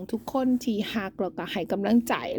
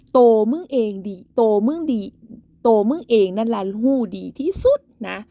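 louder, hammering the point home; angry; 5 dB louder than usual. Real, not acted. Vlogger scolding a rival woman, loud and angry. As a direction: tell her off as if she's right there.

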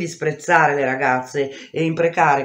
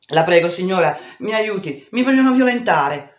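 higher, pleading cry that rises to a loud scream; 3 semitones higher, 3 dB louder than usual. Acted. A terrified girl begs a neighbour for help, screaming through tears. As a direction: beg the neighbour for help as the panic climbs. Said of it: "urlai continuando a piangere".

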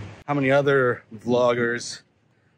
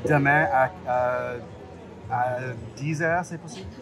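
foreign accent in French. Real, not acted. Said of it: "how'd that go".

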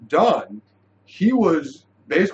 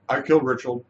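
imitating a matter-of-fact confession; 2 semitones lower, faster than usual. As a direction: state it as simple fact, no fuss. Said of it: "said that so matter-of-factly".

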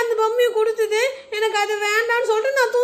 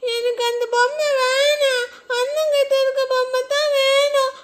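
teary insistence; crying child; 2 semitones higher than usual. Acted. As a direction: wail that only his doll will do. Child cries to mother. (அம்மாவிடம் அழுது அடம் பிடிக்கும் குழந்தை)

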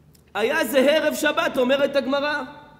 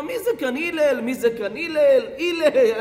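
mock street yell, slightly raised; retold calling out. Man in the street calls for Hillel, mock yelling. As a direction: call out rudely for someone, half in fun. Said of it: "הוא צועק לו".

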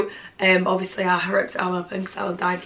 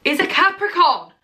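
much higher, triumphant "Capricorn!"; excited exclamation; 8 semitones higher than usual. Real, not acted. Telling viewers her guess was right, triumphant. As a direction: crow it like a winner.

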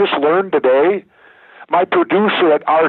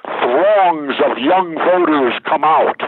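headline read slowly; slower than usual. Retold or imitated. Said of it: "Ventura wins".

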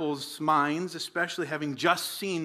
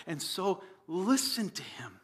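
soft whispered plea, slow; urgent whisper; 5 dB quieter than usual. Real, not acted. Preacher urges the church to hear Jesus, whispering. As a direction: whisper it like a secret that matters. Solemn closing exhortation.

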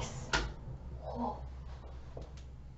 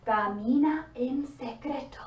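whisper; 6 dB quieter than usual. Acted. Sneaking past in the story.

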